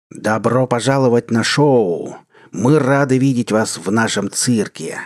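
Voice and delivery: a slow, looming villain announcer; booming sinister voice. Acted. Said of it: "громкий, зловещий голос".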